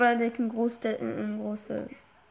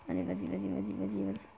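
out of breath; 3 semitones lower, 8 dB quieter than usual. Real, not acted. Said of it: "Putain, je suis essoufflé".

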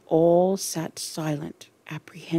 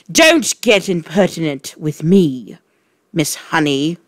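loud angry snap; snapping; 4 dB louder than usual. Acted. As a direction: snap at her. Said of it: "the Trunchbull snapped".

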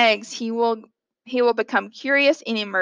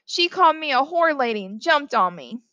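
higher-pitched tattling complaint; mock bawling; 4 semitones higher than usual. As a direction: wail the accusation like a wronged child. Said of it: "he bawled".

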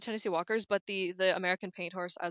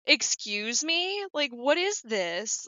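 indignant; 3 semitones higher, much slower than usual. Retold or imitated. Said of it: "Yeah, I'm like".

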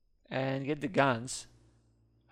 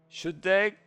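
hammed-up threat; 6 semitones higher, 7 dB louder, much slower than usual. Dramatic game threat.

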